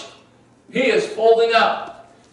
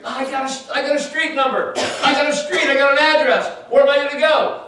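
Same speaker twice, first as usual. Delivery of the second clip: bewildered questioning; 8 semitones higher, faster than usual. Retold or imitated. Ananias baffled by vague directions.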